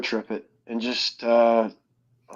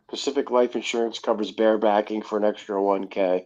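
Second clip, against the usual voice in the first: laughing while reading; 4 dB quieter than usual. Real, not acted. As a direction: read it out through laughter. Reading a funny commercial detail.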